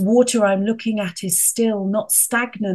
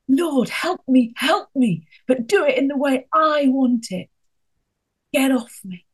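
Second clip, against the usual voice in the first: mock petulant prayer; 6 semitones higher, 3 dB louder than usual. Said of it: "that's what we do with God".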